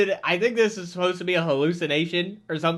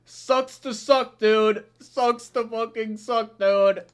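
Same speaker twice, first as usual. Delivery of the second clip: mock taunt; slower than usual.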